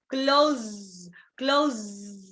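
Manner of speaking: "Close" with a long buzzing z at the end; "Close" ending in a drawn-out voiced zzz; vibrating final sound. Shown as a demonstration. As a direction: hold the buzz at the end of "Close". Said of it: "going to be a vibration".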